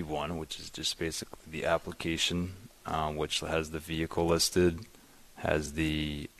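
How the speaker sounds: faint, off-mic voice; speaking away from the microphone; mic too far. Real, not acted. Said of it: "Bring the mic closer to your mouth".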